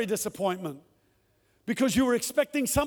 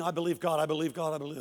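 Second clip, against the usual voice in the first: much lower, softer repeated mutter; muttered faith; 7 semitones lower, 6 dB quieter, much faster than usual. Retold or imitated. Preacher retelling his private mutter while walking, low and soft. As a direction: mumble it under your breath while walking. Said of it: "And I'm walking".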